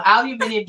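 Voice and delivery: "Aluminium" with five syllables; British pronunciation. Shown as a demonstration. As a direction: say "Aluminium" the British way, al-yoo-MIN-ee-um. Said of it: "way too many syllables to say".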